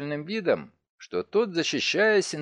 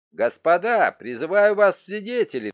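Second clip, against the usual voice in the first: exclaiming; 3 semitones higher, 4 dB louder than usual. Acted. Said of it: "воскликнул Грукотель".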